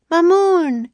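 high, loud searching shout; Annie calling. A narrator's reading. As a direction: shout the name across the desert. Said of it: "Annie called".

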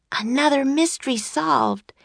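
put-on high, pleased young girl. A narrator's reading. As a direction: voice Annie satisfied. Annie voiced by narrator.

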